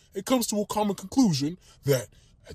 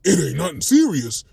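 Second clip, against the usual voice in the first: put-on indignant boyfriend's retort; challenging echo; 3 dB louder than usual. Quantavius confronting the guy chatting up his girlfriend, indignant echo. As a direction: throw the words back as a challenge. Boyfriend throws the words back.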